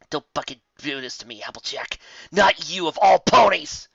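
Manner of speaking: hushed, then a loud high break on the last words; tearful warning. Acted. Rainbow warns Applejack in tears, rising to a loud cry. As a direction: warn her, then crack into a shout. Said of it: "she warned her friend".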